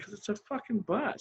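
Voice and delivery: laughing through an exasperated retort; half-laughing, half-exasperated. Retold or imitated. Laughing as he tells the curator the obvious. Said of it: "I'm like".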